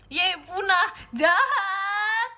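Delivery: loud, high wail of complaint; whiny protest. Real, not acted. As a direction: wail it like a sulking victim. Protesting being teased as endangered.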